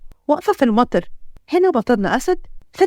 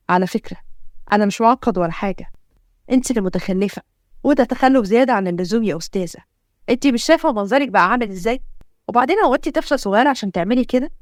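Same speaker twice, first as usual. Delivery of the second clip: a hint of a stern male hero, pitched down; indignant hero; 2 semitones lower than usual. Hero scolds the girl for dancing in rain, indignant. Hero answers back in quarrel.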